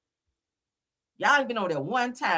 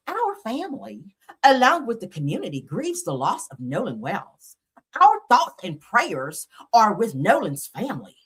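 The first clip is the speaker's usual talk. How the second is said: mock Becky voice. Mocking the judge's statement in a mock Becky voice. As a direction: read it like a smug prissy lady. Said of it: "I gotta say it in my Becky voice".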